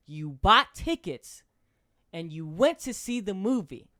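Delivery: loud, slow, pressing cop grilling a suspect; mock cop interrogation. Cop grilling the suspect about the movie, loud and slow.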